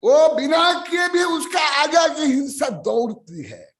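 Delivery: preaching at full force. Real, not acted. Preacher driving home a verse.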